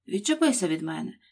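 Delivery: annoyed, exasperated, irritated exclamation. Reading the Duchess's reply to Alice in a story, irritated exclamation. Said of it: "роздратовано вигукнула герцогиня".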